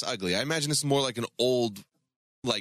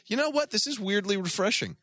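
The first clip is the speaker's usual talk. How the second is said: imitating him, high; 9 semitones higher than usual. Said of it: "You'd probably be like".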